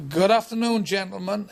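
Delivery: loud club compere greeting; compere announcing. Retold or imitated. Club compere greeting the crowd, loud and showy. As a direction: boom it out like a working men's club compere. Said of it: "And it starts".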